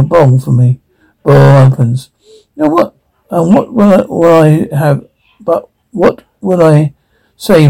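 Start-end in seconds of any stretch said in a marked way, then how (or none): 2.6-5.1 exasperated. Acted. Fed-up mum snapping at demanding customer, shrill. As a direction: jump way up in pitch on Now what.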